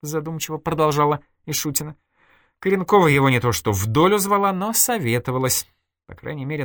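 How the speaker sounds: a hint of a cool, confiding woman; Irina's voice, lightly voiced. Irina coolly confessing to her friend Nadya, lightly voiced. Irina explains Stepan's danger.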